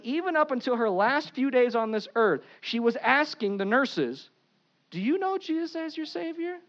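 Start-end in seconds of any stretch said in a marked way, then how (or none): 4.9-6.6 gentle quote. Retold or imitated. Dying woman asking nurses.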